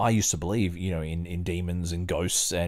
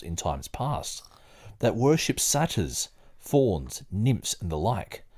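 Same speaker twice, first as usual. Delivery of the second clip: measured book reading, lightly performed; reading aloud; 2 semitones higher than usual. Acted. Reading the book aloud to a friend, in a lightly performed, measured voice. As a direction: read the old text steadily, like a study session.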